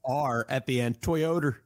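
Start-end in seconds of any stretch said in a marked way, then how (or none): 1.0-1.6 put-on Baltimore accent. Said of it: "the Baltimore accent".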